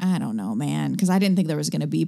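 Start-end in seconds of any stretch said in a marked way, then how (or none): 0.0-1.0 put-on, low, very tired, worn-out, offhand tone. Retelling an answer at a commercial audition: imitating own tired answer. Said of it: "came in, like, real tired".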